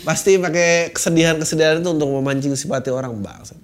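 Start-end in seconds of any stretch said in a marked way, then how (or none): 3.2-3.6 low muttered swear under breath; muttered curse. Real, not acted.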